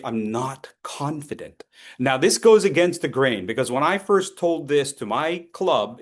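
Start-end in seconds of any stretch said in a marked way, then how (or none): 0.0-1.6 timid. Retold or imitated. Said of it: "it tends to communicate".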